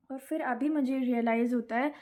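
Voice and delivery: ordinary talk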